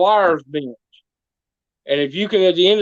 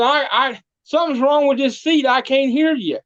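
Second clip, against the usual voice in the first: higher, feigned confusion, pretending not to hear; mock playing deaf; 6 semitones higher than usual. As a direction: play dumb like you can't hear a word. Goat keeps playing deaf.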